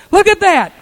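high, loud cry of astonishment; retold scream. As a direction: shout it like the nurse suddenly seeing it. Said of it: "And the nurse screamed".

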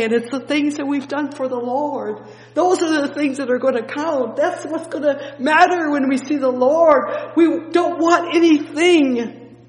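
full-force preaching with a joyous laugh; ecstatic preaching. Acted. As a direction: preach it with rapturous joy, almost laughing. Preacher peaks, laughing joy.

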